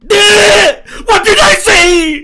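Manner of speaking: excited outburst. Real, not acted. Anime fan reacting to the episode, excited outburst. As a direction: cry it out at the screen, fired up.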